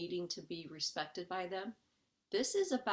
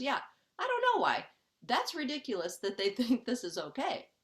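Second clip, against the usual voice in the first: amused disbelief; 3 semitones higher than usual. Acted. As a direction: play the curious voice that finds it absurd. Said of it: "Curiosity changes it around and goes".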